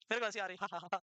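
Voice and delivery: helpless low laugh trailing the words; real giggles. Real, not acted. Teacher tickled mid-lesson in front of students, real low laughing. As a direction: admit the urge to laugh, then break into a low chuckle. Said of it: "अब मेरे को हंसी आ रही".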